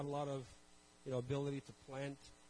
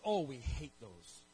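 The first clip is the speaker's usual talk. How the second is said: drawling farmer; 2 semitones lower, slower than usual. Retold or imitated. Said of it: "He goes".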